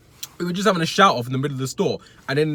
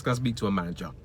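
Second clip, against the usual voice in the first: entitled customer voice; 6 semitones lower, 5 dB quieter, faster than usual. Shown as a demonstration.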